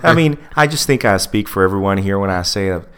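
lightly imitated patronizing praise; mock super-polite. Texan executive thanking the presenter he ignored, mock-polite. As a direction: gush courteously while dismissing her entirely. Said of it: "they were super polite about it".

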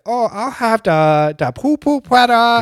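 put-on slow, drawn-out caricature of an Asian accent; put-on Asian accent, words stretched; mock Asian accent. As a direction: imitate dad's exaggerated Asian accent. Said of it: "that's their accent".

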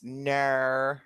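drawn-out Australian "Nar"; mock cartoon Australian "no"; Australian accent. Co-host imitating Bluey talk, Australian accent. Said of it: "it was a Bluey".

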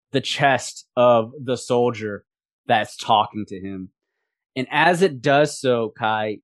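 slow, emphatic game master narration; suspenseful scene setting. A narrator's reading. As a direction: draw out each beat of the horror. Game master narrates monstrous transformation.

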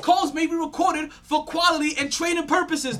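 slow recorded-message announcement; phone menu voice. Pretend. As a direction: read it like an automated phone line. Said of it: "I'm live!".

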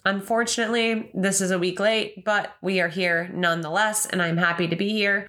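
slightly nasal from allergies; a stuffy, nasal tone. Real, not acted. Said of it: "I'm sorry if I sound a little bit nasally".

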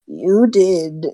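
slow unvoiced hissing hag whisper. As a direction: creep the words out like a cornered witch.

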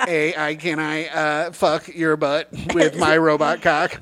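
slow, stiff machine voice; mock robot voice. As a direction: talk like a pleasure robot. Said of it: "I'm doing the A I guy".

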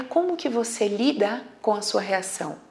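ordinary delivery

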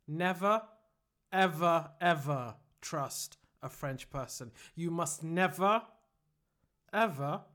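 slow, measured affirmation with long pauses; deliberate mock self-help chant; mock mantra. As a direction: lead them word by word, solemnly. Leads mock mantra to repeat.

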